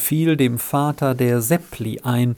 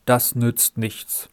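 dejected; 2 semitones lower, 4 dB quieter, slower than usual. A narrator's reading. Seppli dejectedly answering Rita, slow and quiet. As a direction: let the hope drain out of it. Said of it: "sagte er niedergeschlagen".

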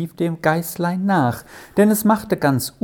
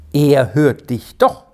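confident; 2 semitones higher, 5 dB louder than usual. Acted. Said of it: "sagte Moni zuversichtlich".

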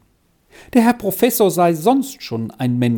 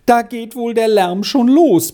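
high-pitched, worried exclamation; startled; 8 semitones higher, 3 dB louder than usual. A narrator's reading. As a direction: voice lifted in mild alarm. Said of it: "fragte Frau Castella erschrocken".

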